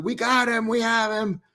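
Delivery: high, triumphant call; celebrating the capture; jubilant cheer. Retold or imitated. Cheering in the background.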